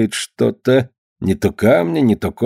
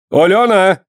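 calling out; 9 semitones higher, 3 dB louder than usual. A narrator's reading. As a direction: call her name across the yard. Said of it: "крикнул он".

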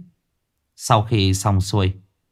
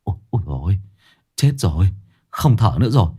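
mildly frightened; 2 semitones higher, faster than usual. Acted. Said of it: "sợ quá".

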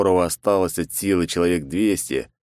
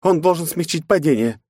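grumbled; 10 semitones higher, 3 dB louder than usual. Acted. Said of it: "буркнула в ответ Найт".

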